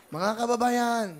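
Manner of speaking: high, loud address to the crowd; calling out. Real, not acted. Host introducing the poets to countrymen, calling out. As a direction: call the whole nation to attention.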